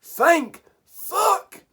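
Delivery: high, relieved exclamation; relieved cry. Real, not acted. Relief after the game.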